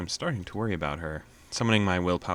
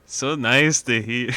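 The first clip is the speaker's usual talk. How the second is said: attempted Scottish accent; 5 semitones higher, 6 dB louder than usual. Lily's Scottish mother greets the caller on the phone, in a light Scottish accent. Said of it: "we're gonna try the accent".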